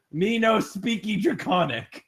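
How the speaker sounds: slow broken speech, lightly voiced; haltering Draconic. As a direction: stumble through words you barely know. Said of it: "haltering Draconic".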